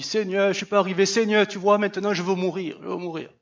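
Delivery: mild whiny plea that fades to a murmur; understated despairing plea; pleading prophet. Acted. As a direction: Elijah begging God, worn out. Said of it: "une sorte de plaidoirie".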